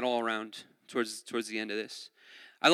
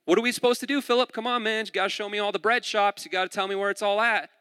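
higher-pitched, mock urging; playful pressing; 6 semitones higher than usual. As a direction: lightly act out badgering a local for directions. Jesus playfully pressing Philip, acted.

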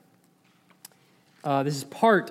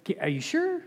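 high, soft pleading question; mock wheedling; 10 semitones higher, 6 dB quieter than usual. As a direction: plead hopefully in a small high voice. Balaam wheedles the Lord, jokingly.

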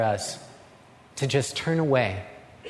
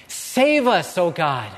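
crying out; 3 dB louder, slower than usual. Acted. Habakkuk crying out to God for rescue, loud plea. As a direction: cry out to be saved. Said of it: "he cries out to the Lord".

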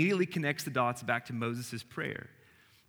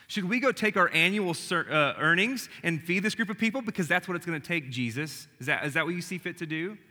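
louder, higher sarcastic retort to Jesus; 4 semitones higher, 3 dB louder than usual. Retold or imitated. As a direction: needle him with spice. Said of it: "a little bit of sarcasm".

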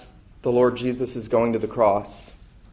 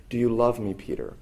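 gentle; 5 dB quieter than usual. Retold or imitated. Preacher voicing Jesus asking Peter once more, gently. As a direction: ask kindly, dropping away softly at the end. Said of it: "he does it in gentleness".

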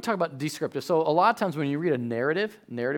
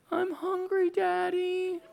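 Titus; 13 semitones higher, 7 dB quieter, slower than usual. Retold or imitated. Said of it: "for us, it's Titus".

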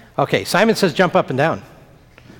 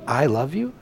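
quiet, softer tender repeat; 5 dB quieter than usual. Acted. Pastor repeating Jesus's words to children, soft and tender. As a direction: let it land softly, just for them. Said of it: "When Jesus says to you".

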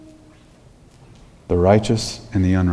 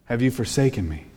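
in anguish. Acted. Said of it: "In anguish".

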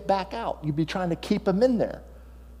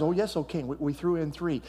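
nervous guard; 6 dB quieter than usual. Acted. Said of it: "And the chief guard says".

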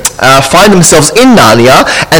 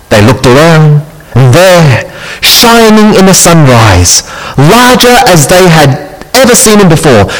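story reading; 3 semitones lower than usual. A narrator's reading. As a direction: read the scene like a children's story. Reads Narnia excerpt aloud.

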